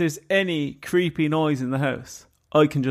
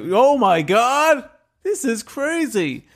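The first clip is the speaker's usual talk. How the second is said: slow, high, hammed-up astonishment; mock amazement; 7 semitones higher, much slower than usual. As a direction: draw it out in overblown awe. Mock deputy amazed by trivial static.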